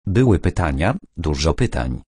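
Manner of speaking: understated sad admission; sadly. Acted. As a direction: let it sink, a touch of sadness. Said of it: "dokończył smutnie".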